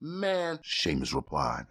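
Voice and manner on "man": high-pitched voice. A narrator's reading. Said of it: "spoke in a high-pitched voice".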